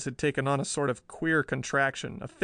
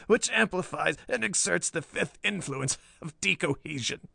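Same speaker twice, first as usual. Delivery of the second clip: raised-pitch, emphatic crazed inventor; mad professor insisting; 4 semitones higher than usual. A narrator's reading. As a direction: explain the invention with fevered conviction.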